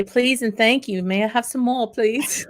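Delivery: hammed-up polite Cockney beggar; southernized Cockney accent. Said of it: "With my southernized, uh, Cockney accent".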